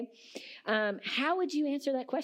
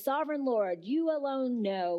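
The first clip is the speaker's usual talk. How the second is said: a touch of pious politeness; lightly voiced polite reverence; 3 semitones higher than usual. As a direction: say it politely, hedging. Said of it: "which sounds very pious and polite".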